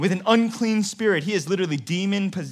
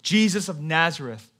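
demon crying out; 4 dB louder than usual. Acted. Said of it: "a demon-possessed man cries out".

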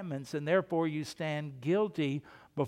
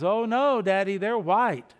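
put-on insistent little boy; 2 semitones higher, 4 dB louder than usual. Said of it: "the little boy goes".

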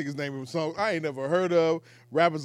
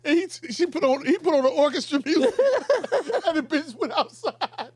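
excited retelling; 10 semitones higher than usual. Real, not acted. Excited retelling of Curb scene.

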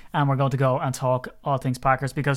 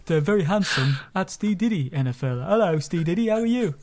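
put-on a lightly done English accent, posing as the English co-host; mock English podcast host voice, only lightly voiced; hint of a fake English accent opening the show; 2 semitones higher than usual. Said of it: "until you just did that one then".

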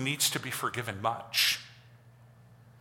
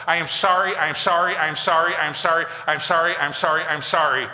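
raised, louder chanted apologies; rote apology; 2 semitones higher, 5 dB louder than usual. Pretend. Preacher imitating someone apologizing seven times, mock rote apology. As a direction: rattle off the same apology loudly, mechanically.

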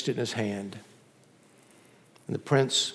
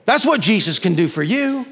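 higher-pitched, forceful proclamation; emphatic preaching; 6 semitones higher, 5 dB louder than usual. Real, not acted. Preacher telling church what Jesus can do, emphatic. Preacher's climax, then hushed repeat.

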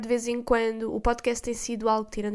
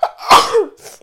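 loud sudden sneeze; a real sneeze bursting out; sneezing; 11 semitones higher, 15 dB louder than usual. Real, not acted. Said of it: "vou espirrar outra vez".

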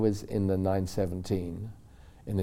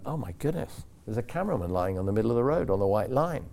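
startled exclaim; 2 semitones higher than usual. Retold or imitated. Startled on seeing cameraman in road.

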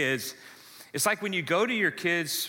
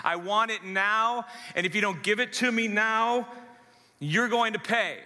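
put-on higher, demanding spoiled-kid voice with a bratty push; whiny spoiled child; 4 semitones higher than usual. Preacher voicing a spoiled child demanding things from parents, higher and whiny. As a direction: play a spoiled kid stamping for what he wants. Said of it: "This is the kid that is so self- self-absorbed".

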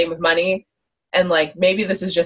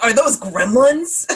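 higher, drawn-out incredulous question; 5 semitones higher, slower than usual. Acted. Co-host quoting his reaction to the Furby pieces, incredulous. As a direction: ask it slowly, pitch climbing in disbelief.

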